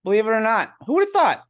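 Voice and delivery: high, sing-song sarcasm; sarcastic mock surprise; mock amazement. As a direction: ham up fake wonder.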